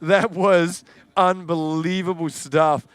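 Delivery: breathless after shouting; catching breath between words. Real, not acted. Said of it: "I am out of breath here".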